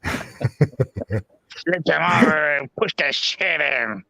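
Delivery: very slow, drawn-out put-on voice; impression of Archie. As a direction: drag the words out in a mock voice. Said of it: "impression of you".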